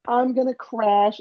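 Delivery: very high, drawn-out mock alarm; mock panic. Cyclist about to crash in the last corner, mock panic. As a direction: squeal it as a retold sudden panic. Retold sudden fear of crashing.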